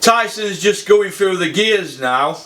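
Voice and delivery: slow, measured quote; quoting a commentator. Retold or imitated. Quoting John Rawlings' commentary to the viewers, slow recital. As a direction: read it out slowly as someone else's words. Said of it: "and I quote".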